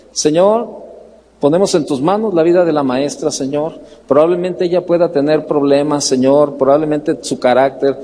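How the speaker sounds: low, measured praying voice; re-enacted prayer. Father praying with his children for their teacher, re-enacted low prayer.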